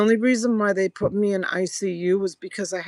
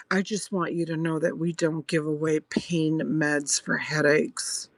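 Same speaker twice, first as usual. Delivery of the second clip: lower, measured warning that slows at the end; retold condescending notice, pitched slightly down; imitated stern nurse; 3 semitones lower than usual. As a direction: act out a nurse refusing a patient.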